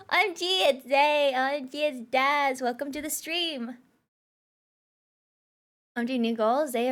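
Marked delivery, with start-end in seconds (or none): 0.1-3.8 cutesy, lilting British greeting; slightly raised, cute British accent; uwu British voice. Shown as a demonstration. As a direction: put on a sweet British uwu voice. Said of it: "uwu British voice".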